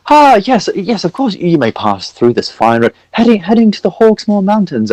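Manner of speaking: put-on high, fussy old priest voice; jolly priest NPC. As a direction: play a pompous, chatty cleric.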